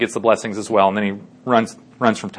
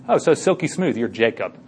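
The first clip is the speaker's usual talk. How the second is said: softly acted father feeling smooth arms; quiet, understated aside in character; hushed mock discovery; 2 semitones lower, 8 dB quieter than usual.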